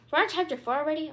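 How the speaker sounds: quick, high, disbelieving question; can't believe it's chapter four already; surprised. Real, not acted. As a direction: blurt it out in real surprise. Reader startled by chapter count.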